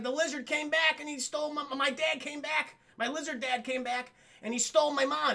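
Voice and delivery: put-on high-pitched distressed kid voice; playacted childish dismay; acted upset child. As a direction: wail out the bad news like a little boy. Upset child reports mother taken.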